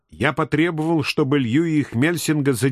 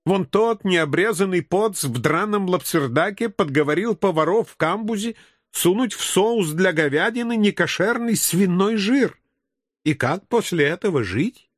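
higher, aggrieved complaining voice; indignant Jewish passenger; 4 semitones higher than usual. Acted. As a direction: kvetch with outrage. (возмущённый одесский говорок)

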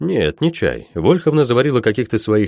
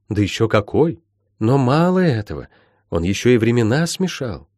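higher, lilting mentor's voice; explaining healer; 4 semitones higher than usual. Acted. Healer explaining the cataclysm to Molly, instructive. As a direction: lay out the history, lightly in character.

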